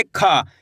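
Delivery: खा with a long, stretched आ; drawn-out vowel. Shown as a demonstration. Teacher shows how the आ matra sounds, खा drawn out. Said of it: "तो खींच के पढ़ना है".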